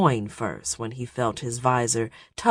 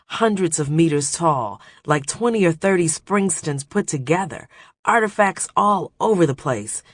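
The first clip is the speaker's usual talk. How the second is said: beaming with triumph, breathless; excited; 3 semitones higher than usual. Acted. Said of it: "beaming with triumph".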